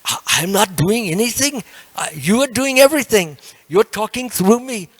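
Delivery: put-on high, loud humble devotee in an accent; Ramananda Roy. Devotee crediting Lord Chaitanya, loud accented protest. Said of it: "He was talking like that".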